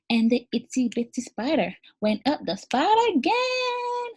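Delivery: put-on goofy nursery-rhyme reading for little kids; silly voice. Shown as a demonstration. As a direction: ham it up for preschoolers. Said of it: "read this poem in a silly voice".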